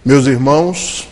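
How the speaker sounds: a hint of a spirit medium intoning; lightly solemn medium voice; medium's changed tone. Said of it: "muda a sua entonação".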